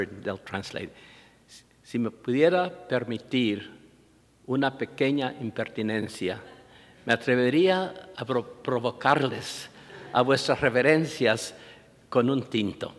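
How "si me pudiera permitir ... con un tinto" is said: lightly voiced courteous young lady, ornate and unhurried; a hint of an elaborately polite hostess; polite coffee server. Young lady offering priests coffee, lightly mimicked courtesy. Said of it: "she said it this way".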